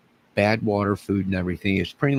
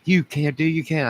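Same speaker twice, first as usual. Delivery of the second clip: high, whiny mock protest, much higher; mimicking Debbie's protest; 9 semitones higher, 3 dB louder than usual. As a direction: squeak it out like an indignant coworker. Imitating Debbie's angry protest.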